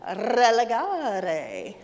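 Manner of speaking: Relegare with a rolled R, very slow; teaching children to roll the R in Relegare; rolled R's. Shown as a demonstration. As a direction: trill the R in Relegare, drawn out. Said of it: "better at rolling your R's".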